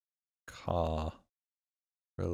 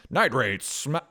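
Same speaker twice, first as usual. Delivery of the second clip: vintage newsreel headline voice; 1940s news voice. Shown as a demonstration. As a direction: read it like a wartime radio bulletin. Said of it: "in a nasally nineteen forties news voice".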